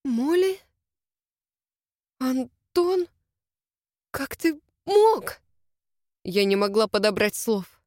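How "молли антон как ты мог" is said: stunned disbelief. Acted. Heroine stunned at revelation.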